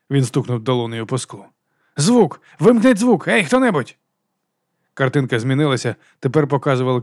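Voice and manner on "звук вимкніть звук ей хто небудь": high, loud frantic calls; shouting for the sound. A narrator's reading. Harry at the TV store window, shouting for someone to turn the sound off. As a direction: yell at the room to turn the sound off.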